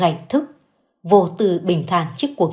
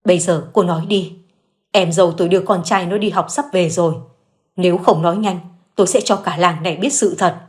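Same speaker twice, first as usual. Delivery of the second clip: steely voice. Acted. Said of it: "giọng nói đanh thép".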